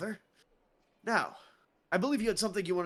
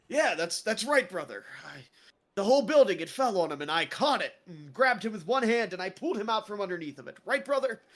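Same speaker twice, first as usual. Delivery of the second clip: boasting Royce; 3 semitones higher, 4 dB louder than usual. Acted. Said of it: "Royce looks over and he goes".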